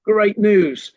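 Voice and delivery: mock cheery great news. Shown as a demonstration. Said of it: "I'm not saying we'd say to a customer".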